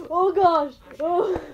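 high, loud, then stretched out; frightened cry. Real, not acted. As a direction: cry out and drag it as the shock fades. Monster scare in game.

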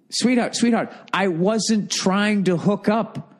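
smug, slowed-down plea of innocence; totally arrogant. Pretend. Brother to angry sister, a mildly smug mock plea. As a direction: play the smug innocent, lightly. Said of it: "I would just go totally fucking arrogant".

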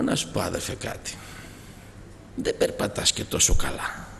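low, soft, wry aside sinking to a whisper; inner voice. Retold or imitated. Preacher retelling his private sarcastic thought, quiet aside. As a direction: mutter the thought under your breath. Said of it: "Από μέσα μου λέω".

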